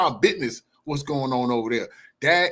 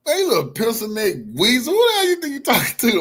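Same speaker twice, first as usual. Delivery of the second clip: higher, louder angry berating; angry taunt; 7 semitones higher, 4 dB louder than usual. Real, not acted. Streamer scolding the senator clip, angry raised voice. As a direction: tear into him, scornful and loud.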